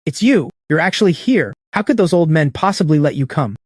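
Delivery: high, startled disbelief. Acted. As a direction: thrown by who's standing there. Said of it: "then speaks in disbelief".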